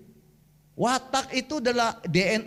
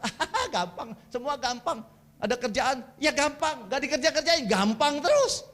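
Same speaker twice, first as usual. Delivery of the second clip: easygoing phlegmatic; 3 semitones higher than usual. Retold or imitated. Preacher mimics a phlegmatic putting off work, mock carefree. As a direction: brush every job off, stretching the last words. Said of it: "Plekmatis itu diajak tuh".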